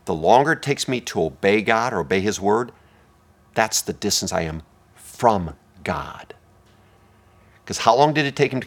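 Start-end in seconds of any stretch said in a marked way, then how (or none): 0.0-6.3 repeated as a whisper. Shown as a demonstration. Pastor repeating a key phrase, whispering its end. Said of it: "let me say it again".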